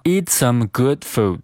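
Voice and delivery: "good food" with both d's held unreleased; "eat some good food" with silent stops. Shown as a demonstration. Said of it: "进行一个失去爆破的处理".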